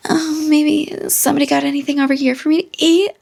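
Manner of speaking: high, lightly voiced coy cat; a hint of a sly cat. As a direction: play the cat sweetly fishing for food. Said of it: "She's like".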